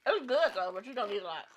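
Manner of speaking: talking while crunching chips. Real, not acted. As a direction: speak through a mouthful of chips. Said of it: "Sorry for all the crunch".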